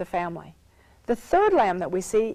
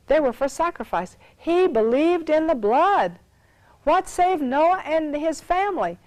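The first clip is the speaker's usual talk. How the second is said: emphatic preaching; 5 semitones higher, 3 dB louder than usual. Real, not acted. Preacher urging listeners to faith in the blood, emphatic preaching. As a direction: drive each phrase home like a preacher.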